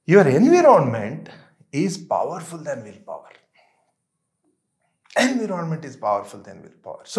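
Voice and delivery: drawn out word by word, very slow; slow emphatic maxim. Real, not acted. Coach telling friends a key rule, very slow and weighty. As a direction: let each word land slowly, like a motto.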